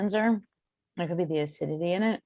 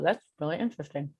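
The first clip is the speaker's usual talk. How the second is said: talking around a bite of chocolate; chewing while speaking; mouth full; faster than usual. Real, not acted. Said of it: "I'm talking with my mouth full".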